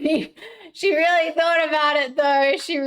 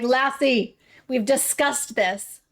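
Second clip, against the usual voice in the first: mock stern parent; slower than usual. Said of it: "I'll be like".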